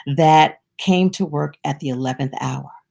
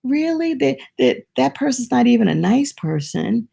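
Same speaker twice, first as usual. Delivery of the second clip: high, quick mock complaint; imitating his own jealous self; a hint of petty resentment; resentful grumbling; 5 semitones higher than usual. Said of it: "I've said".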